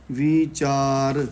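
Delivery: ਵਿਚਾਰ with long ee, "veechaar"; long "vee". Shown as a demonstration. Teacher models scripture reading, ਵਿਚਾਰ as long "veechaar". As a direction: stretch the first vowel of ਵਿਚਾਰ. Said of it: "ਵਿਵੇ ਨੂੰ ਬਿਹਾਰੀ ਹੈ".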